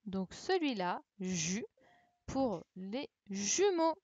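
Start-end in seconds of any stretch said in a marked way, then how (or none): 2.8-4.0 "jumeaux" drawn out from its opening ju; syllable sounded out. Shown as a demonstration. Teacher giving pupils the answer, "jumeaux" slowly sounded out. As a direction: stretch "jumeaux" so the ju is clear. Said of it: "c'était le ju".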